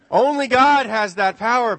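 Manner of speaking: loud, high laughing line to the parents. Real, not acted. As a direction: laugh it out as a punchline.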